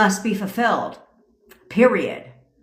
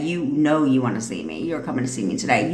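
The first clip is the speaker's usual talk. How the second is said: deep, certain command; low commanding voice; 8 semitones lower, 3 dB quieter than usual. Shown as a demonstration. Coach demonstrating a low, commanding affirmation to listeners. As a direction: drop the voice much lower and assert it.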